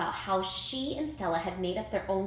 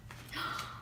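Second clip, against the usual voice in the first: breathy gasp; 10 dB quieter than usual. A narrator's reading. Gasp without words.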